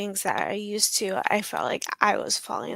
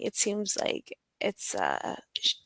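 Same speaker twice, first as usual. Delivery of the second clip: hushed, unvoiced and careful; delicate whisper; 5 dB quieter than usual. Survivor retelling her therapist's gentle words, in a whisper. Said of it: "she approached it in a very delicate manner".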